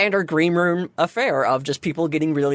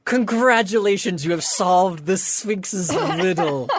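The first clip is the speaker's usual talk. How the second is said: lightly raised, proud announcement; cheerful sphinx host; 4 semitones higher than usual. Acted. Sphinx Baruch welcoming winners as their con mom, lightly cheerful. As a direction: congratulate them like a friendly con mom. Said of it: "she opens the door and she goes".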